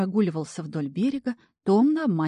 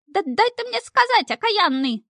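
much higher, louder shrill snap; flaring outburst; 6 dB louder than usual. A narrator's reading. Imp losing patience with the grabbing devil, high furious outburst. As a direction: explode at him in exasperation. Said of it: "вспылил чертяк".

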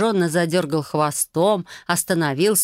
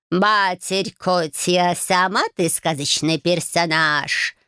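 mild growl; slower than usual. Acted. The offended cat snaps back at Marya, lightly growled. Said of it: "прорычал утробно Баюн".

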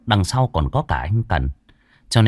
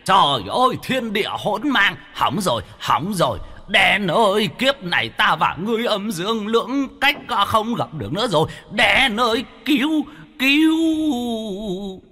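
much higher, hammed-up panicking old ghost; panicked wailing; 10 semitones higher than usual. Ghost upside down in the stream crying to Đen, hammed-up panic. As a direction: wail as if the sky fell. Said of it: "ông kêu la chóe chóe".

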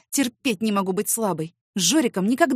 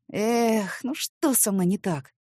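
sighing; much slower than usual. Acted. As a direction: wonder what's wrong with yourself. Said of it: "Я вздохнула".

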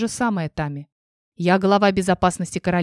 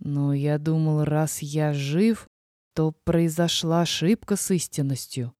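тихое раздумье; 3 semitones lower, 5 dB quieter than usual. A narrator's reading. Дракон растерянно рассуждает.

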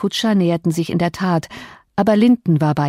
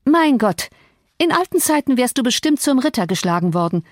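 mocking cry; 6 semitones higher than usual. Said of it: "rief Catherine".

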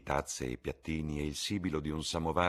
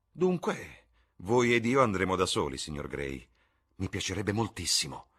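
much higher, louder, delighted invitation; exuberant Lord Henry; 4 semitones higher, 6 dB louder than usual. Acted. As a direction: sweep them along gleefully. (Lord Henry esuberante, molto più alto e forte)

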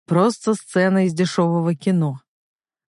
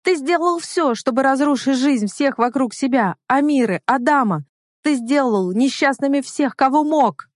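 high accusing cry; 8 semitones higher than usual. Acted. Heroine keeps shouting at Fahir.

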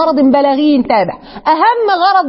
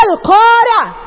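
emotional outburst; 8 semitones higher, slower than usual. Real, not acted. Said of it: "أنا اتخضيت كده".

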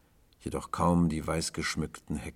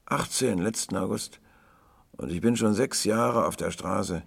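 higher, lively lad's voice; boastful young boy; 4 semitones higher, 5 dB louder than usual. A narrator's reading. Boy telling tramp about running from home, high lively voice. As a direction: tell it pitched up, like a proud runaway.

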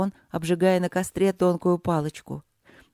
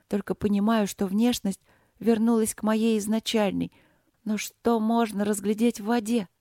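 put-on higher, lost and anxious girl; lost young princess; 4 semitones higher than usual. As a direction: voice her small and bewildered. Princess voice held.

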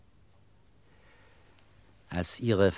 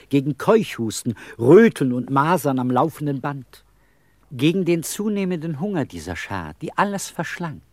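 rising exasperation; 4 semitones higher, 5 dB louder than usual. Acted. Ranting about his children's illnesses.

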